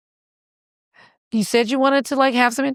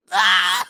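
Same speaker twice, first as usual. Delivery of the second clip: acted pain groan; 3 semitones lower than usual. Reenacts pain the next day.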